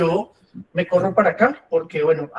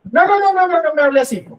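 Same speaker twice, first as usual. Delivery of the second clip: very high-pitched, raised voice; 10 semitones higher, 5 dB louder than usual. Showing how someone reacts in an argument with a raised voice. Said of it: "lo que hice fue que aumenté el tono".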